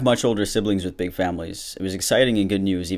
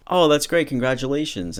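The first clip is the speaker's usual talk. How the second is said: higher, bright-toned gushing congrats; cheerful, nice congratulations; 8 semitones higher, 4 dB louder than usual. Pretend. Being nice about a sister's fifth pregnancy, high cheerful congrats. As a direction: sound genuinely pleased for her. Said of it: "just still be nice and be like".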